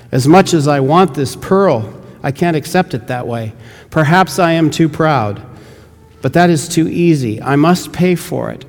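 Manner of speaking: lightly voiced missionary begging to buy; eager missionary. Missionary refuses the gift.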